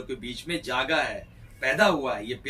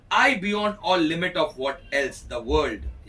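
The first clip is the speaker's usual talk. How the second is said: dramatic Shakespeare recitation; much slower than usual. Acted. Teacher reading Ferdinand's vow aloud to the class, slow and grand. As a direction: intone the vow like a stage lover.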